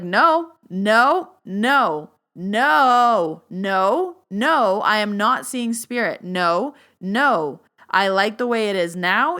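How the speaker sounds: loud, insistent refusal; retold yelling. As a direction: yell it as a firm boundary.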